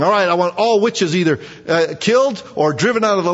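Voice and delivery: a hint of a king's loud command; royal decree. Preacher acts King Saul banishing witches, lightly voiced. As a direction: bark it out like a proud king.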